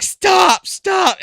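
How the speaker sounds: high, loud yelling stop, stop; wife's panicked shout. Retold or imitated. Wife yelling at husband to stop his stunt, high panicked shout. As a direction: shout at him to quit it right now. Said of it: "And then she's like".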